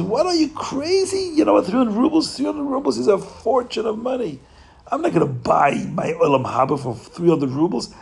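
hammed-up indignant innkeeper; outraged haggling. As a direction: balk at the price in disbelief.

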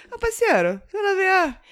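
high mock Carioca accent; sotaque carioca. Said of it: "no Rio de Janeiro e voltei já falando". (imitando carioca, mais agudo)

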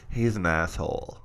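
low, slow, drawn-out comic impression; deep, lingering mock verdict; Eddie Murphy bit. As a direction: quote a stand-up routine in a low voice. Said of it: "It was that Eddie Murphy Raw".

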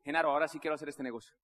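quick, low declaration; brisk resolve. Retold or imitated. César tells Genaro he is in, brisk resolve. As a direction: say it fast and low, in one go. First take, then emphatic repeat.

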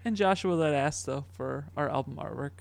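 flat monotone robot reading. Acted. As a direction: sound like a speech synthesizer. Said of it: "I'll let the robot voice do it".

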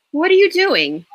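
high, loud surprised question; startled by what he grabs. A narrator's reading. Rachel startled as Victor grabs paper towels, surprised question.

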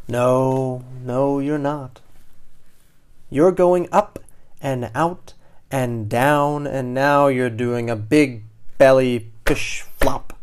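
put-on expressive read-aloud for children; animated storyteller; story narration. A narrator's reading. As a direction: tell it like a picture book, pointing up each phrase. Reads picture book to children.

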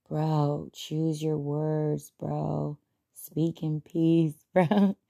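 slow, soft, lazy stoner drawl. Retold or imitated. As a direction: mellow stoner, stretched out slowly. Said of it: "She used to talk like a stoner".

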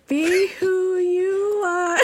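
slow, high, crying voice; mock crying. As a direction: wail it out like sobbing. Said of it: "It's gonna be like".

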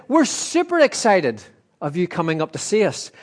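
high-pitched imitation of keen excitement; imitated super-excited. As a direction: gush it high, as if imitating an overexcited friend. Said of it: "You don't say super excited".

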